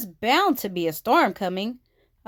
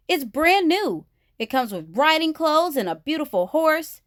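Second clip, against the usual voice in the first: Sister's voice; 6 semitones higher than usual. A narrator's reading. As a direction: brag about the toy like an excited little sister.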